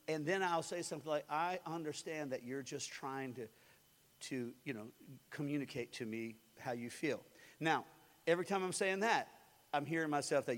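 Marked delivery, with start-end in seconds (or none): 1.3-7.2 softer, lower, gentle explanation; soft and understanding. Retold or imitated. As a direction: ease her anger, quietly. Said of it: "I keep talking softer".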